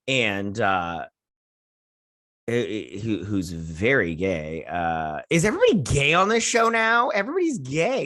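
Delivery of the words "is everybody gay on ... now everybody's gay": loud, high-pitched disbelief; incredulous outburst. Real, not acted. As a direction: blurt it out, baffled and exasperated. Incredulous rant about the show.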